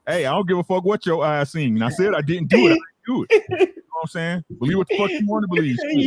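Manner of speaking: mock Bud denial. Voicing Bud denying it.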